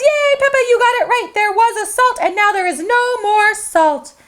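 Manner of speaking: high, delighted praise; gleeful cheer for the winner. Acted. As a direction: cheer Peppa on. Mickey cheers Peppa's right guess.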